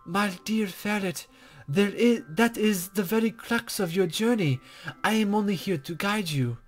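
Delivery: a hint of a coy, teasing sage; softly playful guide voice, not far from own; lightly voiced mysterious guide.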